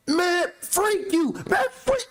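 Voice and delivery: high squeaky edited-cuss voice; censored TV dub voice. Retold or imitated. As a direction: squeal it like a bleeped TV edit.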